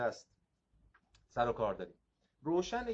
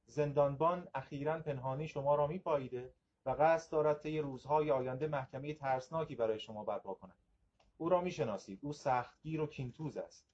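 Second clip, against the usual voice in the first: steady literary narration; story reading. A narrator's reading. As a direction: read the parable to the class. Reads Nietzsche parable aloud. (روایت داستان با لحن کتابی)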